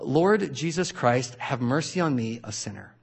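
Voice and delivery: slow, devout recitation fading to a hush; prayer recitation. Shown as a demonstration. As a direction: pray it slowly, letting the end die away. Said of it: "and it goes like this".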